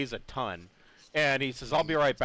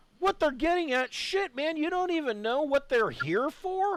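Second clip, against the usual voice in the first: piercing, very high-pitched, shrill yell. Voicing the other guy in the audience who calls out: yelling. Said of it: "you can hear a yell from the other guy in the audience".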